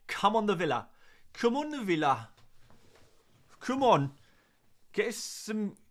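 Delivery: put-on high, loud go at a Birmingham accent. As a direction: cheer on the team in mock Brummie. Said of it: "I can't do a Birmingham accent".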